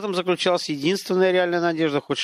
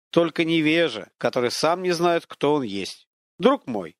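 stern scolding spirit; 4 semitones higher than usual. Acted. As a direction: scold him like a Greek god.

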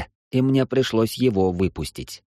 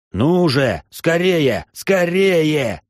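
urgent, higher, louder begging; pleading; 6 semitones higher, 4 dB louder, much slower than usual. Acted. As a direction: beg them to hurry up. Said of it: "взмолился я".

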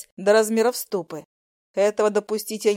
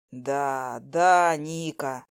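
dejected; 7 semitones lower, much slower than usual. Acted. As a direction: sigh it out, sorry to admit it. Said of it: "сокрушенно подтвердил".

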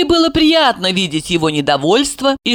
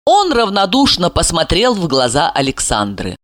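ordinary delivery, nothing marked

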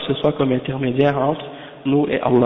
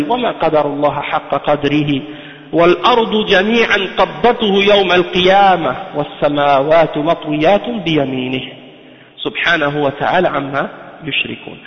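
quick Quran recitation; much faster than usual. Acted. Quotes a Quran verse.

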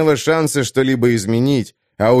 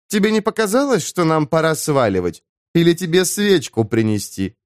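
female character voice; 5 semitones higher than usual. Acted. Afira mocking Daron.

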